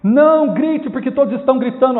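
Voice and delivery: emphatic pulpit warning; forceful admonition. Real, not acted. Preacher's climactic exhortation.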